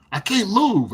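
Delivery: put-on old man complaining to his helper, whiny; whiny Bob. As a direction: whine that you can't move.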